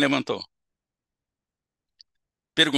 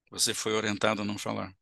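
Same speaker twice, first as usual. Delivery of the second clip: calm quiet mirroring; 4 semitones lower, 6 dB quieter than usual. Shown as a demonstration. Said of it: "Vai falar baixo".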